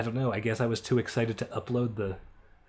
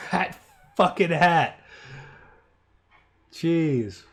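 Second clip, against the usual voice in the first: laughing; 6 semitones higher, 6 dB louder, much slower than usual. Real, not acted. Reacting to a character's hat.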